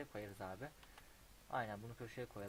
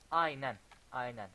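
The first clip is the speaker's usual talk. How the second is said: slow, loud, drawn-out yes yes; emphatic agreement; 10 dB louder, slower than usual. Real, not acted. Player approving his own building layout, loud and slow. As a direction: savour each word of approval.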